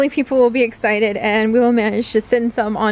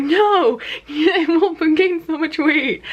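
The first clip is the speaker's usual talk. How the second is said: imitating him, laughing through a higher teasing no; mock-scold while laughing; laughing reply; 5 semitones higher, slower than usual. Partner laughing at the breakfast plea, light laughing imitation. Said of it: "Chips laughed and was like".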